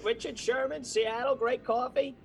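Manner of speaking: hammed-up TV football pundit; Mel Kiper. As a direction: do an over-the-top sports draft analyst. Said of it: "if I ever wanted to do Mel Kiper".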